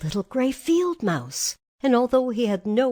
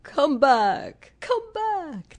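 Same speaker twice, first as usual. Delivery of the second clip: raised, carrying call; 7 semitones higher, 5 dB louder, much slower than usual. A narrator's reading. Woodman calls fleeing mice back, calling out. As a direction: call after someone running off. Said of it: "while he called to the mice".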